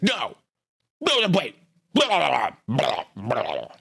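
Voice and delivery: high, scornful mock of Chili brushing off the debate; mocking impression of Chili. Streamer mocking the YouTuber who refused the debate, sneering mimicry. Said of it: "That's my impression".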